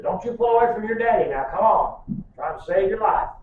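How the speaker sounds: fast, high, urgent; urgent pleading. Retold or imitated. Father grabbing gum from daughter, fast urgent coaxing. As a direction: rush it as if saving her. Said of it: "I said".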